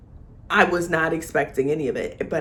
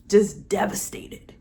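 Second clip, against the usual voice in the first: mock whisper. Real, not acted. Telling viewers about Colin's heartbreak, whispered mock pity. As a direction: breathe it like tragic gossip.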